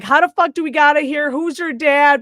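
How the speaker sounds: imitating a frantic group grilling; rapid-fire questioning. Acting out group grilling the girl.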